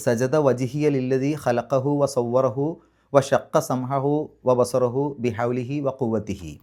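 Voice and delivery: slow, measured Arabic recitation of the prayer; recited prayer. Shown as a demonstration. Teacher reciting the prostration prayer slowly to students. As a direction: intone each word slowly like a prayer. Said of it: "അതായത്".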